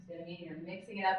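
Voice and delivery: normal talking voice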